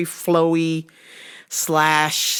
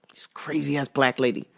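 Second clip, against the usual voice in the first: unvoiced whisper to a coworker; 2 semitones lower, 5 dB quieter than usual. Real, not acted. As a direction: whisper it so she can't hear. Whispering to coworker about customer.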